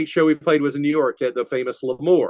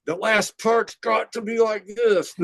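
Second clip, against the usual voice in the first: mock bandmate; 10 semitones higher, slower than usual. Bandmate arguing over song.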